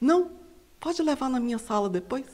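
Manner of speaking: hushed, barely-there, very soft answer. Retelling how the shouting boss then answered: imitating boss answering very quietly. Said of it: "respondeu assim, bem baixo".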